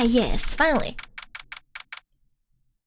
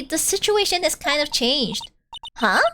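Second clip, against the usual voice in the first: ordinary talk, nothing marked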